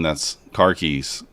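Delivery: "car keys" said slowly with Boston r-dropping, like "khakis"; slow, light Boston "car keys"; Boston accent. Retold or imitated. Explaining Boston speech to chat, slow light Boston accent. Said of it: "But in Boston".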